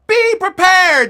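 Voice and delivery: high, loud, drawn-out troop response; yelled in unison. Retold or imitated. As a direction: yell the motto back as a troop. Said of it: "the kids yelled in unison".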